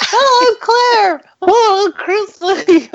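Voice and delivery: lightly mocking high radio-host greeting; sing-song host hello, teasing; imitating the hosts. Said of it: "They're just imitating us right now".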